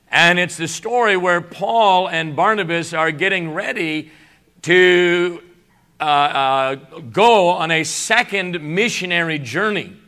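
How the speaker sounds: a bit of rough morning voice. Real, not acted. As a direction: voice still waking up. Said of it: "I'll get out of my morning voice".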